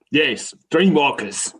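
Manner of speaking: lightly voiced Rumpert, hurried and flustered. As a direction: blurt the questions after a slap to the face. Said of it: "slaps himself in the face and goes".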